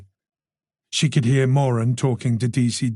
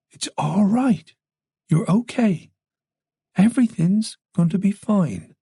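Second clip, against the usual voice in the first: reassuring; 8 semitones higher than usual. A narrator's reading. Comforting a weeping woman.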